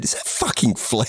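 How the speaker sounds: whispered. Retold or imitated. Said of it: "turned around and looked at each other and said".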